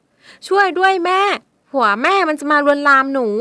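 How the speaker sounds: high, loud, slow desperate shout; girl shouts for mother to hurry; shouting for help. Acted. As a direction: scream for mother again. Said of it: "เธอตะโกนออกไปอีกครั้ง".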